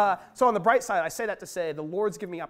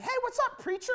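casual greeting; 3 dB quieter than usual. Retold or imitated. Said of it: "He's like".

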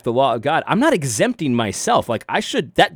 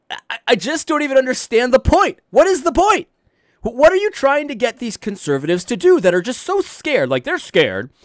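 mock exasperation; 8 semitones higher than usual. At the preacher, in a high mocking squeal. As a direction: squeal the question like it's absurd.

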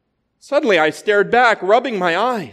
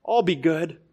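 wheedling lizard; 3 semitones lower, 6 dB quieter than usual. A narrator's reading. Lizard pleading softly.

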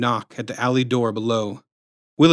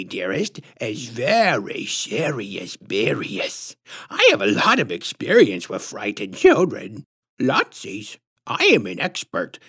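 put-on creepy squishy-throated baby-talk, swooping up and down; patronizing lisp; 5 semitones higher, slower than usual. A narrator's reading. Self-styled expert warning a mother about her son, patronizing lisp. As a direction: lecture with lisping, exaggerated condescension. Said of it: "patronizing, squishy-throated lisp".

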